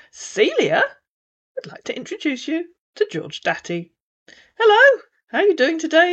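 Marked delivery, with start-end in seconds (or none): 4.6-6.1 high, bright-voiced chat-up hello; scammer greeting. A narrator's reading. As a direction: greet her like a smooth chat-up man.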